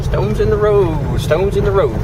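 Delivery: husband needling his wife again; sing-song tease. Pretend. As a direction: sing it to keep teasing. Repeating tease.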